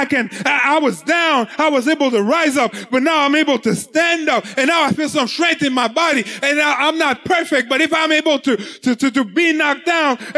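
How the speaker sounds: impassioned preaching. Acted. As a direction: build into a rousing declaration of regained strength. Preaches regained strength at full force.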